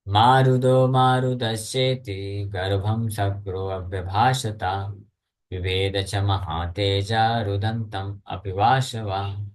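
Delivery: slow, measured scripture chant; Sanskrit verse recitation. Acted. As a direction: recite the shloka with drawn-out syllables.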